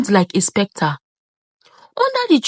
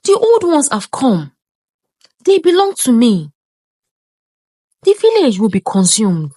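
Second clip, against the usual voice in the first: ancient eternal voice. A narrator's reading. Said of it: "a voice that was both ancient and eternal".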